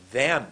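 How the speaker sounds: THEM pushed out loud, falling; intonation. Shown as a demonstration. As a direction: put full weight on THEM. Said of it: "I got intonation".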